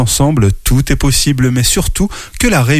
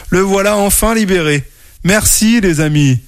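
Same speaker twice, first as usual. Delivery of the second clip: happy; 7 semitones higher than usual. Acted. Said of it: "tout heureux".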